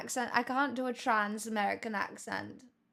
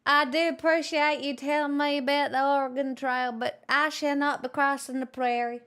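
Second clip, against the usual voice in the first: lightly put-on posh British lady accent; a hint of posh British accent, playful; mock posh British accent. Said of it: "do you like my mix of accents".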